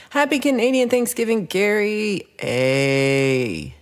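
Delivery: bright, drawn-out Gary A; sing-song shoutout; cheery greeting. Real, not acted. Greeting Gary for Canadian Thanksgiving, drawn out.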